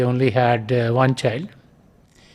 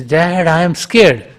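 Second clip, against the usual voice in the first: mock shout; 3 semitones higher, 5 dB louder than usual. Boy shouts to his father a third time, raised. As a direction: cry out for Dad once more. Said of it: "he shouts again".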